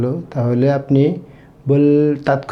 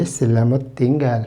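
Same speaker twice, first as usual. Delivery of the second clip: slow demo; much slower than usual. Shown as a demonstration. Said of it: "teacher demonstrating Malay phrase".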